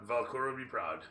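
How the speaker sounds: ordinary talk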